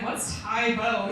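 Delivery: slow, innocent playing dumb. To her husband, playing dumb slowly and innocently. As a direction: drag it out like a clueless young wife. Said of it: "and I was like".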